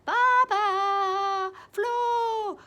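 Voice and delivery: high loud squawking parrot. Acted. Jaco the parrot repeating her screams, squawked high. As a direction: screech the names like a parrot. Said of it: "Jaco répète dans mon dos".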